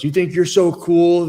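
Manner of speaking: slow, high, sneering challenge; mock screaming taunt. Drunk student taunting him in the hallway, mock yelling. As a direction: imitate an angry drunk picking a fight. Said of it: "he was just screaming at me".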